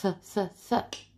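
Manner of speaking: TH in three short puffs without voice; unvoiced TH. Shown as a demonstration. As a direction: repeat TH as separate breaths, as in mouth. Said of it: "Think is like mouth".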